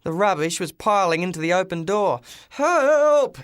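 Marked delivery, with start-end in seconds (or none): 2.5-3.4 much higher and louder cry for help; desperate yell. Acted. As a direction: yell for help, buried alive in junk. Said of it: "yelled the driver".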